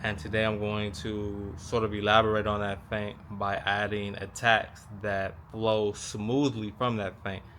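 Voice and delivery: talking around a mouthguard; words muffled by a mouth guard; wearing a mouthguard. Real, not acted. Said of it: "Excuse me for having my mouth guard in".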